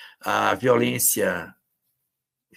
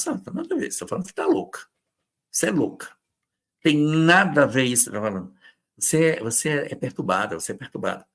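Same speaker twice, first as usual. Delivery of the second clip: mock dismissive partner; 4 semitones higher, much faster than usual. Acting a gaslighting partner.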